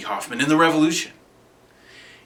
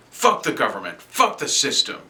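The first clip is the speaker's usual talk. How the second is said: defiant slogan shouting; 4 semitones higher, 4 dB louder than usual. Acted. Acted outburst of rebel slogans.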